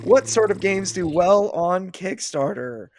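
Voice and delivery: slow, loud, grand announcement; dramatic announcer. Pretend. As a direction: present it like a big reveal. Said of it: "Ta-da!".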